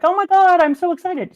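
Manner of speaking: high, loud mock fan squeal of delight; imitated excited girl. Retelling the fan girl's reaction, imitated excitement. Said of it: "So this girl was like".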